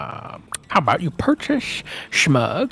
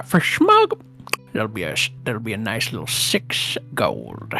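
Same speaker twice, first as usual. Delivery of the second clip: lizard voice; 3 semitones lower than usual. Acted. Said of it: "he goes".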